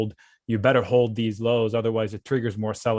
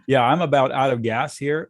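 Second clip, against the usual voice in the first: hoarse, worn-out voice; strained voice; 3 semitones higher, 5 dB louder than usual. Real, not acted. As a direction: voice strained from talking all day. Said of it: "My throat is screaming".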